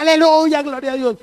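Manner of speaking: high, loud praise cry; imitated shout. Woman cheering on the preacher, imitated high shout. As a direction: imitate a fervent churchgoer calling out high. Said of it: "ella gritaba".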